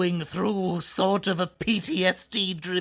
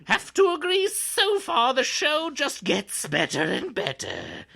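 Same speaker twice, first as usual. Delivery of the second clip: drawn-out s like a snake; 5 semitones higher than usual. Acted. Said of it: "You can keep it going".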